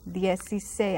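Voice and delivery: "dieciséis" with the middle C as S; S sound. Shown as a demonstration. Teacher explaining C and I, "dieciséis" with an S sound. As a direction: say "dieciséis" as dyeh-see-SAYS. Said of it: "It's an S sound".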